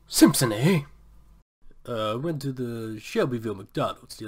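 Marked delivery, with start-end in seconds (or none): 0.1-0.8 boss voice. Acted. Mr. Burns.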